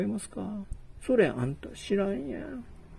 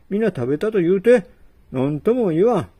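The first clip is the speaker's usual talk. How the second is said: loud challenge; 2 semitones higher, 7 dB louder, faster than usual. Acted. Host challenges guest loudly.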